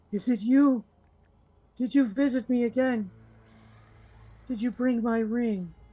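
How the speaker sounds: gentle, mournful pleading voice, pitched high. Storyteller voices an unseen speaker only one player hears, soft, sorrowful voice. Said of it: "a soft, sorrowful voice".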